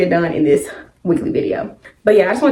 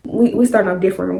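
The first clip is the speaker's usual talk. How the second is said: normal talking voice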